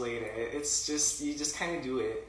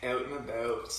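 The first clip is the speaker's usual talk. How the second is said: mock Canadian accent, vowels closed off. Shown as a demonstration. Echoing Canadian accent phrase.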